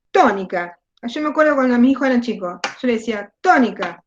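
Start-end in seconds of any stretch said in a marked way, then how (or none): 0.1-0.8 TÓnica con golpe inicial y caída; acento en TÓ. Shown as a demonstration. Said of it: "es donde va la fuerza". 3.4-4.0 «tónica» marcada en TÓ, cayendo después; acento rítmico. Shown as a demonstration. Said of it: "jodía mucho con los ritmos".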